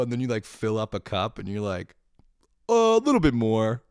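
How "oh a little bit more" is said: high, loud mock-unsure voice; clueless dithering. Hapless gardener topping up the watering cup, high and dithering. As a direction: pitch it way up, playing a hapless amateur.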